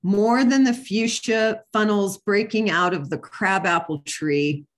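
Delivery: measured, deliberate poetry recital; poem reading. Acted. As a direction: read it out as a poem, phrase by phrase. Reads a poem aloud.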